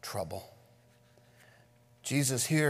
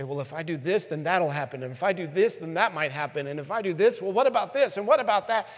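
anxious worrier; 4 semitones higher, 4 dB louder, faster than usual. Retold or imitated. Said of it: "you say".

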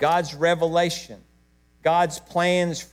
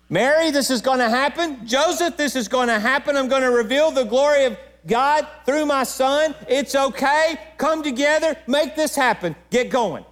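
God speaking; 9 semitones higher than usual. Acted. Preacher voicing God to Mary, Joseph.

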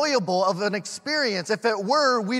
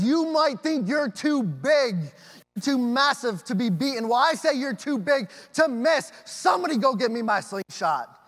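bold defiant David; 4 semitones higher, 4 dB louder than usual. Retold or imitated. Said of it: "he says".

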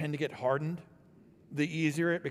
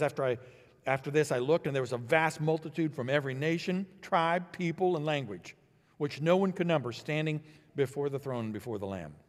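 measured public reading, raised and steady; scripture reading. Acted. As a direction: read the verses out to the congregation. Rereads verse nine.

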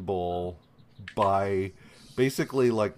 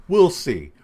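higher, louder mock villain threat; sinister threat; 7 semitones higher, 9 dB louder than usual. Oily dude warns the lawyer he'll defend him, sinister threat. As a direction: throw out a hammed-up sinister warning. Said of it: "And the guy's like".

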